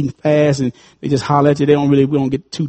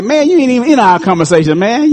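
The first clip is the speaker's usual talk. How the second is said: annoyed flesh; 5 semitones higher than usual. Retold or imitated. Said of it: "The flesh was like".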